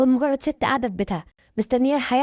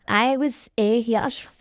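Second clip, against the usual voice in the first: changed voice. A narrator's reading. Woman answering her ex-husband's call, in a changed voice. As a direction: draw the question out in a slightly different voice. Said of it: "رديت بصوت متغير".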